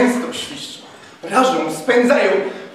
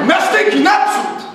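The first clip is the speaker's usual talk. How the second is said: higher, louder charge order; battle cry; 9 semitones higher, 4 dB louder than usual. A narrator's reading. Captain sending troops in with bayonets, loud shout. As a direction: drive them forward with the cry.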